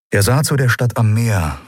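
ordinary delivery, nothing marked

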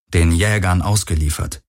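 ordinary delivery

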